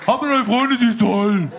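mock casual chat. Small talk while distracted.

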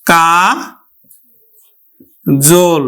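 কা then জল, split; teacher spells out কাজল; syllable by syllable. Shown as a demonstration. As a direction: break কাজল into ka and jul. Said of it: "উচ্চারণ করব কিন্তু".

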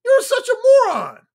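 loud, high-pitched exasperated insult; frustrated. Acted. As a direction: throw it out high and loud, fed up. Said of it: "they get frustrated about something".

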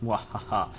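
mock villain laugh; hammed-up evil Muahaha; evil chuckle. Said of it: "Ich bin der Meister".

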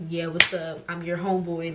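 a hint of a cool dude; mock homeboy. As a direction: play a chill homeboy greeting. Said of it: "This is giving".

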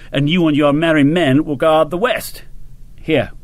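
lightly voiced colonel briefing an officer; grand colonel. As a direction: lay out the plan with a touch of bluster.

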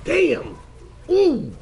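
high excited shouts; cheering in-game reaction; hype exclamations. Real, not acted. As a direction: react to a huge hit. Reacting to a big hit.

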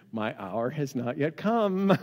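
smiling, slowed-down reply; amused and teasing, grin through it; Jesus grinning at his mother; with a big smile. Retold or imitated. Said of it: "with a big smile on his face".

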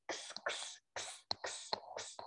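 whispered "кс, кс" like calling a cat; breathy kitty call, very soft; calling kittens. Shown as a demonstration. Teacher voicing letters that call kittens, whispered. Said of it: "постійно їх кличуть".

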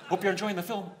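Sean Connery impression. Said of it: "It's me, Sean Connery".

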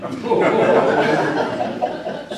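loud laugh at the punchline; hearty laugh. Real, not acted. Telling friends the joke on Ken, laughing out loud. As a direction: let the laugh roll out. Laughing at own prank story.

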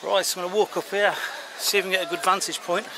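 breathing hard while walking uphill; heavy breaths between words; audible breathing. Real, not acted. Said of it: "Sorry if you can hear me breathing".

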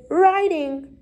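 light, lifted cry; pupils crying out. A narrator's reading. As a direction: call out the answer like lively pupils. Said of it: "cried the scholars".

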